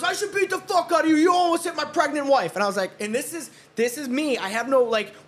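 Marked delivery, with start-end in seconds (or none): 0.0-2.6 high-pitched mock tirade of an irate husband; imitated angry threat. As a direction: act out an outraged man's threat. Golfer's threat escalates, acted out.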